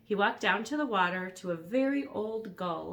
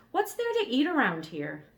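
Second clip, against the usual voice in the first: hungry dragon voice; 7 semitones higher, 6 dB louder than usual. Acted.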